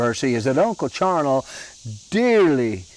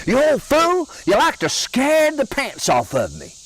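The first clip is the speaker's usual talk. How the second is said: much higher, shaken exclamation; wife just scared by her husband, startled high scold; 11 semitones higher than usual. Retold or imitated. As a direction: fresh from a fright, scolding him. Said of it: "you could tell she was really startled".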